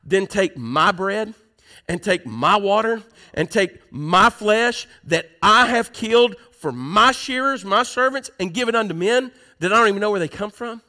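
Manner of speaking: indignant, punching every "my" and "I"; self-important outrage over his possessions; prideful. Acted. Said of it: "isn't that a prideful thing".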